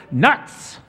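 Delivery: high, loud cartoon squirrel. Shown as a demonstration. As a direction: burst out high like a frantic little animal. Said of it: "How do you express being a squirrel?".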